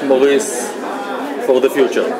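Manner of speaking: ordinary delivery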